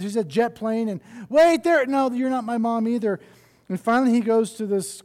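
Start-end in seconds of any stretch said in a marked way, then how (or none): 1.3-3.2 high loud call, then dropping back; calling out then let down. Acted. Baby bird calling the jet plane, high then letting down. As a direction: shout wait, then sigh it off.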